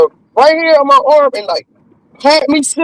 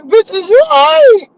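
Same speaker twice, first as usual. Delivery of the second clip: concerned friend; 11 semitones higher than usual. Retold or imitated. Someone checking on her.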